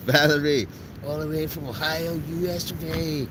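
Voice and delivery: high, put-on American twang; American accent. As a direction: call out in a showy American accent. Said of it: "my American accent".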